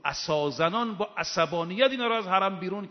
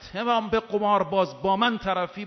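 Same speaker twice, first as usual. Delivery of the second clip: higher, louder, forceful retelling of an angry challenge; angry retold outburst; 4 semitones higher, 4 dB louder than usual. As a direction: raise the voice as if confronting someone in anger. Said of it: "با خشم این جمله رو گفت".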